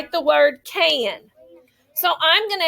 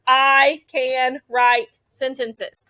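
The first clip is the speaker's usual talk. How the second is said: slow, stretched teacher reading; word by word; much slower than usual. Shown as a demonstration. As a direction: point to each word as you say it. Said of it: "point to my words as I say them".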